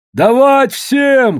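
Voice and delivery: high, loud, slow bellow; shout from the crowd. A narrator's reading. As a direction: yell it out over the crowd's brawl. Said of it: "крикнули из толпы".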